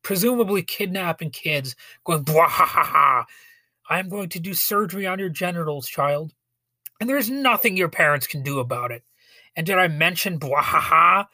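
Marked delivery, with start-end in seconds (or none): 2.2-9.0 lightly voiced cackling villain doctor; a hint of a hammy movie villain; mustache twirling villain. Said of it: "mad mustache-twirling doctors". 10.4-11.3 loud villain cackle, lightly voiced; a hint of an evil laugh; mustache twirling villain. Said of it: "mad mustache-twirling doctors".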